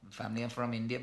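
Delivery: light Indian accent on Family are from India; a brief, understated Indian English lilt. Shown as a demonstration. Showing viewers how his family doesn't talk, Indian accent. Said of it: "but we don't talk like this".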